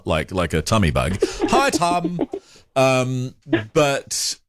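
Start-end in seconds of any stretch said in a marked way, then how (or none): 1.5-2.2 high "Hi, Tum." with the broad Kiwi vowel; imitating a broad Kiwi greeting; strong Kiwi accent. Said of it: "people with a very strong accent who call me Tum".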